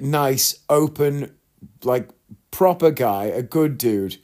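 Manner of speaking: ordinary talk, nothing marked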